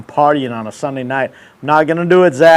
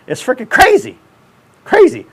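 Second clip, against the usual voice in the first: exasperated; 9 semitones higher than usual. Real, not acted. Mock rant about millennial slang.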